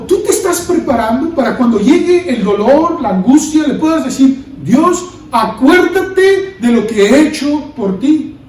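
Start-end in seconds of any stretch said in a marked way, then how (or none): 4.6-8.3 slow, drawn-out plea to God; slow pleading prayer. Pretend. Believer in anguish asks God to remember: slow earnest plea.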